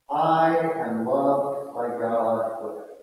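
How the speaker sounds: gentle and loving. Shown as a demonstration. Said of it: "Make your voice gentle and kind and loving".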